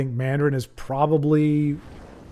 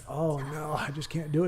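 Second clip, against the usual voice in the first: mock despair; 9 dB quieter than usual. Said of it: "it's just like".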